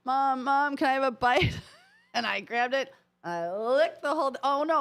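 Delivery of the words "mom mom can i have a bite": put-on pestering child. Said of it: "she's like".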